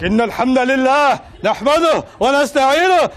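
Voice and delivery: imitating an imam in full khutbah mode; intense khutbah delivery. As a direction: preach it like you've got the mic on. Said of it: "they turn into somebody else".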